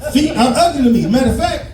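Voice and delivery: usual speaking voice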